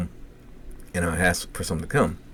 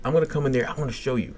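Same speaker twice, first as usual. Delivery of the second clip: higher-pitched retold plea; agitated pleading; 6 semitones higher, faster than usual. Patient asking nurses for his toys back, agitated. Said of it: "he's getting, like, really agitated".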